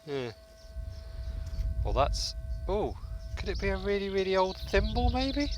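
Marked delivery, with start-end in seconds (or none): 2.7-5.5 excited. Real, not acted. Excited guess at find.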